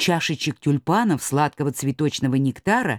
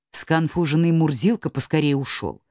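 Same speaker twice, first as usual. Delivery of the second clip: plain reading voice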